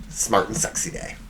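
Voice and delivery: "Smart and Sexy Day" whispered softly and low. Acted. Host teasing his own holiday, soft whisper. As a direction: breathe the holiday name like a secret.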